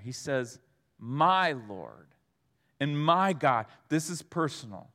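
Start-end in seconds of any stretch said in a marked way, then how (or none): 1.0-3.7 "My" leaned on and held out, low; stress on My. Shown as a demonstration. Preacher points out the little word "My", stressed. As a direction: dwell on the word "My" in "My Lord". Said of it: "this little word tucked in there".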